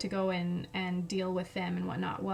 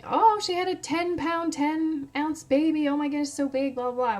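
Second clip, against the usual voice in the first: mock-gushing, higher-pitched chatter that fades; imitating amazed friends; 5 semitones higher, 3 dB louder than usual. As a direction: gush like gossiping friends. Friends gossiping about the big baby.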